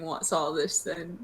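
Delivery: mock British bobby voice; British accent. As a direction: say it like a British policeman. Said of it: "British people really went off by asking".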